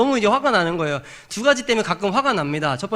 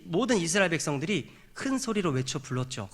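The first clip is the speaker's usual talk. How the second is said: ordinary talk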